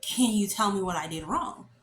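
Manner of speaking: pointed, questioning lift on WRONG; insistent repeated question. Retold or imitated. Failed student repeating the question to the examiner, insistent.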